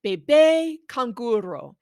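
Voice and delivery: bebé canguro with every syllable spelled out; enunciated clearly. Shown as a demonstration. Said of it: "Enunciate each syllable clearly".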